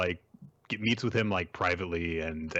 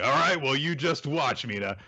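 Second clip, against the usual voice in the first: higher, playful mock swagger; imitating cocky bravado, voice lifted; a little cocky; 5 semitones higher than usual. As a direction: toss it out like a confident challenge. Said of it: "he gets a little cocky and is like".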